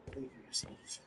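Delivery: soft, low in-character voice; hushed, low words of support; quiet encouragement. Acted. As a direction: murmur it privately to an ally. Player in character encourages Ashton.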